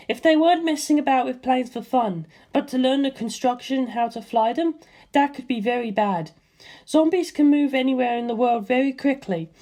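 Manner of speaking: Lisa Lisa's voice. A narrator's reading. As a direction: voice the calm Hamon master, puzzling it out. Lisa Lisa explains the threat.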